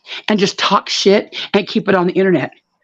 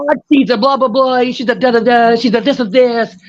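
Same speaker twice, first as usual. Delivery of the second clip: mocking gossip voice; 3 semitones higher than usual. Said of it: "So you can run and go".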